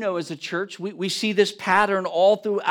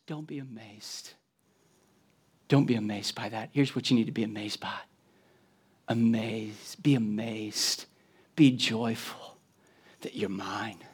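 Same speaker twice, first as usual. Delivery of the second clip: gentle Jesus; 6 semitones lower, 10 dB quieter than usual. Acted. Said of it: "Jesus looks at them once again, said".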